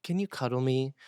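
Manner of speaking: lightly voiced little boy asking mom; Riley. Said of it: "Riley looks at Megan and goes".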